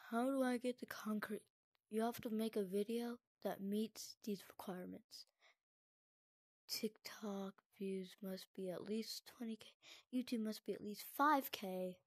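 soft unvoiced whisper. Real, not acted. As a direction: whisper the rules aloud. Whispered reading of requirements.

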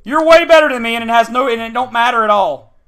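sarcastic impression of a winner; taunting opponent. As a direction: mimic a smug rival.

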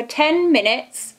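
talking with face mask on; slightly stiff lip movement; through a sheet mask. Real, not acted. Seen 1: Wet sheet mask on whole face throughout; lips partly free, R frames bare.

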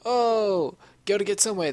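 high-pitched mocking voice; mock map creator. Gamer mimics map creators who send players off, high and mocking. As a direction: put on a high, silly voice. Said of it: "They're like".

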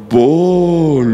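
deep, loud, stretched-out call; insistent temptation voice. Retold or imitated. Voice calling the pastor at night, deep and insistent. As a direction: intone it low and long, haunting the sleeper. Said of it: "La voz pioró".

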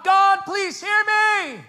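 high, loud, slow desperate plea; pleading scream. Retold or imitated. A believer begging God to listen, screaming. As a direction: cry out to be heard. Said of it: "we're screaming at him".

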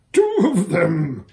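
slow, drawn-out moan. A narrator's reading. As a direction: let it sag out in dread, slowly. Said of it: "moaned Bree".

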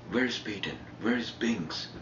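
retold angry questioning; mock furious. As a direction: demand it like someone boiling over, mildly. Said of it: "furious, fucking boiling".

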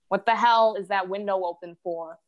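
lightly voiced alarmed mother; imitating mom. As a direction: scold as a mom in a mock interrogation. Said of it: "she's like".

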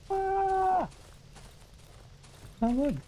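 very high, long wavering ghost woo; spooky ghost voice. Pretend. Gamer spooking at the creepy house in a ghost voice. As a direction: croon it like a cartoon ghost.

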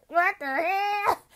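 startled scream. Real, not acted. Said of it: "The scream I scrubbed".

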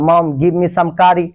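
very slow, each word apart; slow teaching drill. Shown as a demonstration. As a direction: drill it slowly for learners. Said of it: "তরকারি দাও".

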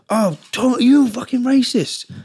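high-pitched imitation of an accuser; mock accusation. Acting out lads accusing him.

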